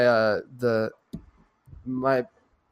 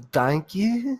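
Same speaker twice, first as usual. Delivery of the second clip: higher, put-on Australian thanks; impression of an Australian accent; 6 semitones higher than usual. Co-host echoing a friend's impression, mock Australian accent. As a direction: copy a bad film Australian, pitched up. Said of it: "an impression of an impression".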